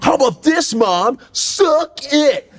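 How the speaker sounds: put-on high-pitched mouthy child; bratty kid. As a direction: taunt Mom in a high mock kid voice. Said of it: "that's why the kid be like".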